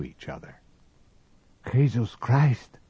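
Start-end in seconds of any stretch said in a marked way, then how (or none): 1.7-2.8 shocked, slow and loud; startled cry. A narrator's reading. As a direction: cry out in sudden fright. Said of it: "cried Tomas".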